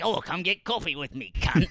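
mock British accent, sixties Cockney; put-on Cockney banter. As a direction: do a jokey Cockney invitation. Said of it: "sort of, like, sixties Cockney".

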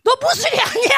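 high, loud acted cry; imitating a commanding divine interruption; emphatic correction. God's emphatic word acted out.

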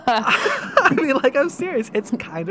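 high squealing laugh-talk; loud, high, still laughing. Real, not acted. Laughs after friend's joke.

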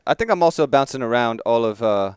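a lightly put-on British accent drifting toward Irish; wandering fake English accent. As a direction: ramble in a half-hearted English accent. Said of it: "That's probably what I sound like right now".

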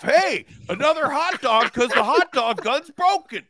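high, laughing Midwestern voice; mean Midwesterner. Acted. A mean Midwesterner tells someone off over hot dogs, high. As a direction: tell the jag off in character. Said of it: "Spencer does my favorite Midwesterner".

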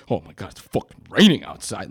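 lightly imitating a drunk man's talk; mock drunken exclamation, pitch swooping about; wrecked drunk. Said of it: "he was, he was wrecked".

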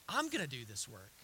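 low, soft assurance; softly spoken divine promise; hushed promise. Acted. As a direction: keep it quiet and sure. God's promise, still hushed.

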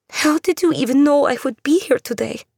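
put-on a scared girl demanding answers; wary young woman. Andula voiced by narrator.

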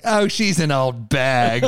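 slow, dismissive mock put-down; disrespectful Bill Maher. Imitating Maher insulting the Queen on TV, disrespectful. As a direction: draw it out with open disrespect. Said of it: "he's just so disrespectful".

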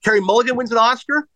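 lightly voiced radio host pressing a guest; Howard Stern. Radio host grilling a movie star about Oscar hopes, imitated insistently. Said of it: "Howard Stern said".

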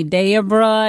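imitated Southern girls calling out; touch of a Southern accent. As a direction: say Debra with a Southern drawl. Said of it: "a little bit of a Southern accent".

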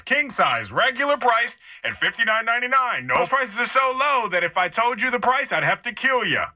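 lightly voiced store PA announcer; store loudspeaker announcer. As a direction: pitch it like a loudspeaker ad. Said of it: "check this out".

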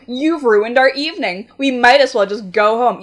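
re-deliver the blame with mild fury; seething. Acted. Young man giving up on the date, mildly seething. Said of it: "the young man seethed".

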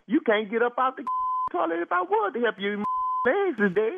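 words broken by real laughter; laughing. Real, not acted. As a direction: laugh through the line, cracking up. Neighbor laughs at numb caller.

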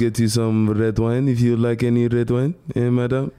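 French-accented waiter offering wine; mock French waiter voice. Shown as a demonstration. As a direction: serve madam in a put-on French accent.

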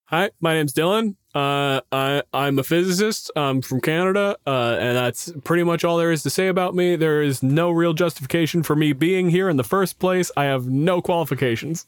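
lightly hammed-up humble intro; mock sheepish intro. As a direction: play it like you don't belong here. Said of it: "And then you're like".

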